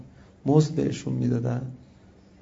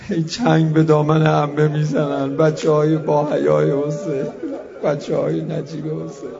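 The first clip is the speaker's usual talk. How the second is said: mourning lament. Acted. Mourning climax of sermon.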